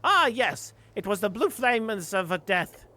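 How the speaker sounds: high, fast prophetic bird voice; prophesy like a zealot bird; high doomsaying bird; ominous bird prophet. Acted.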